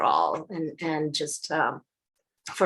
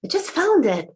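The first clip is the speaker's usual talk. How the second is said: voice cracking; 5 semitones higher, 5 dB louder than usual. Real, not acted. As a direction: voice cracks up high. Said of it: "Losing my voice somehow".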